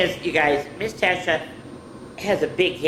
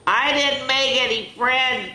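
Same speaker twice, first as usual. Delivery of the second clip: crying; 8 semitones higher, 4 dB louder than usual. Acted. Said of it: "Penelope cried".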